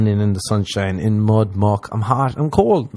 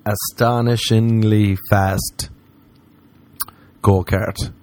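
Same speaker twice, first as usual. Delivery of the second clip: slow careful attempt; slower than usual. Real, not acted. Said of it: "Let's try one more time".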